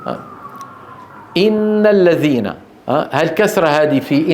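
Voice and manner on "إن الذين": إن with the i held; slow إن; stretched kasra. Shown as a demonstration. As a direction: lengthen the i of إن. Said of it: "إذا طولناها".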